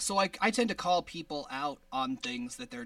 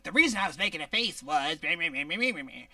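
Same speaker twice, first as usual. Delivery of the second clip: lightly voiced whiny Megan, fast babble trailing off; mock her excuse with a run of meh sounds; half-hearted whiny mimicry of a co-host; mocking Megan impression; 4 dB louder, faster than usual. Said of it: "I love that my voice sounds like that".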